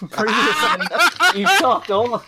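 put-on high, loud Australian accent. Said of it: "do an Australian accent".

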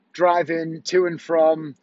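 driving to and from, dragged out slowly with tired pauses; slow weary repeat. Real, not acted. Husband weary of the rushed day, slow and drawn out. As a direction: let driving to and from sag out slowly.

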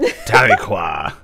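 Tahlequah sounded out slowly; careful pronunciation. Shown as a demonstration. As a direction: spell out Tahlequah syllable by syllable. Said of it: "I don't know how to pronounce that word".

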